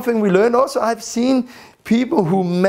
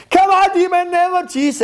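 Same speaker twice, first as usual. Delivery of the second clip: loud, high commanding yell at the demon; commanding shout; 11 semitones higher, 4 dB louder than usual. Retold or imitated. Praying men order the demon out with a shout. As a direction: bark it out like an exorcist. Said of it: "became loud and command even more".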